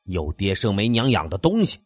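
mild hammed-up rage; furious cursing. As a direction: spit out the insult in anger. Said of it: "小曾怒气冲冲地骂道".

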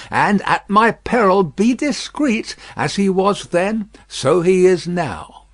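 dark, heavy and insistent; grim shopkeeper. Acted. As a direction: tell it like a grim secret. Defarge explains grimly.

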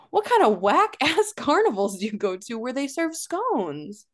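whispered, laughing disbelief; incredulous whisper. Real, not acted. Podcast host whispers her disbelief at the scones line. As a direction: hush it in amused disbelief.

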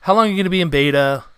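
mock an impatient fan; impatient fan complaint. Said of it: "a lot of people are like".

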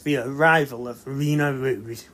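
trailer voiceover. Retold or imitated. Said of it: "the trailer voiceover is like".

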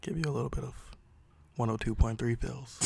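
slow, close-mic radio crooner; smooth late-night radio DJ intro; slow jams radio voice. Acted. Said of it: "thinks that I'm not gonna talk like this".

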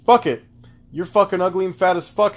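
mood-driven insult. Retold or imitated. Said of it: "in my moods where I'm just like".

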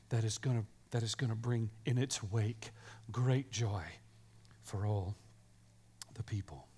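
soft, low, near-whispered reading of the angel's words; hushed storytelling. Acted. Preacher telling children the angel's message, in a soft hush. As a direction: draw the kids in with a hushed voice.

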